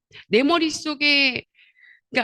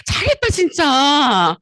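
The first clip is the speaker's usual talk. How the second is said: enthusiastic praise; 2 semitones higher, 7 dB louder, much slower than usual. Retold or imitated. Cheering the friend on.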